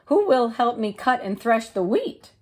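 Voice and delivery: high, bright hen voice; little red hen. Acted. The hen asking neighbours about seeds, in a high voice. Hen's voice.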